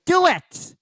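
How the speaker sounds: high, loud villain shriek; Rita. Acted. Villain orders Goldar to strike, high loud shriek. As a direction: shriek the command impatiently. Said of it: "and Rita's like".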